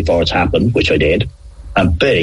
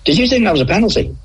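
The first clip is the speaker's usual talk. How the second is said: retold question; 13 semitones higher, faster than usual. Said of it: "I said to the linesman".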